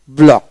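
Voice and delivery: "ব্লক" ending in one k sound; silent c. Shown as a demonstration. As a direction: model "ব্লক" with no separate c sound. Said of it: "সি উচ্চারণ হবে না".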